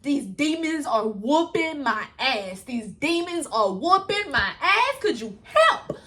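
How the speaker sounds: slow, hammed-up plea to God; a lightly voiced begging prayer; mock prayer. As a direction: drag it out like a dramatic prayer. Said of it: "It was like".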